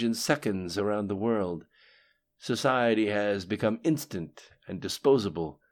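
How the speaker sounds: A narrator's reading.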